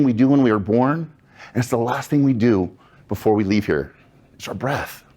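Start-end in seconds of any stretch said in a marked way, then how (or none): 4.3-5.0 soft reveal. Acted. Reveals breath as the key tool.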